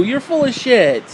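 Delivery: slow scolding. Real, not acted. Repeated scolding.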